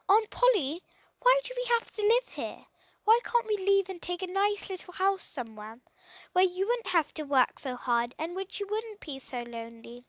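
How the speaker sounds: put-on high eager boyish plea; pleading boy. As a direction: coax her gently, hopeful. Philip pleads with aunt.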